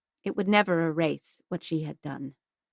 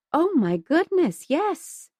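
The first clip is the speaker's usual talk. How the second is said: much higher, bright exclamation; delighted surprise; 8 semitones higher, slower than usual. Acted. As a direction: gush with sudden recognition. Mrs Hudson recognizes.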